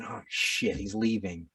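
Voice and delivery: whispered inner panic, breath only; unvoiced aside of dismay; panicked whisper. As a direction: hiss it to yourself as your chance slips away. Panicked inner thought, Neil leaving.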